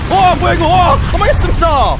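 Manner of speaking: high, loud startled shout; shocked outcry. Real, not acted. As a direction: yelp in shock at sudden death. Sudden death in game, shouting. (깜짝 놀란 외침)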